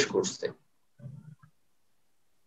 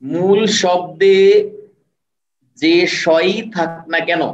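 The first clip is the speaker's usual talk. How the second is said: শব্দে and সই slowed and stressed; emphatic slow; 3 semitones higher, 3 dB louder, slower than usual. Shown as a demonstration. Teacher stressing the spelling rule for students. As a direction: lean on each word to drive the rule home. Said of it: "খেয়াল করেন".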